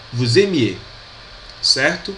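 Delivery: ordinary talk, nothing marked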